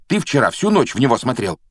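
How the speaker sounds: mildly heated complaint; heated objection. Acted. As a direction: argue back with some heat. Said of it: "горячо возразил Рон".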